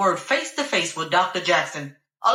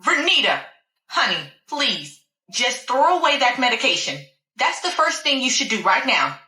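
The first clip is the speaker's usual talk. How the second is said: demanding doctor; 5 semitones higher than usual. Acted. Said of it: "Doctor Jackson demanded".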